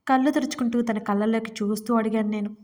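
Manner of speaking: usual speaking voice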